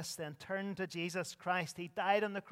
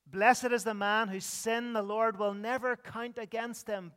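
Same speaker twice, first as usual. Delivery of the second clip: proclaimed scripture; 4 semitones higher, 6 dB louder than usual. Acted. Reads scripture verse aloud.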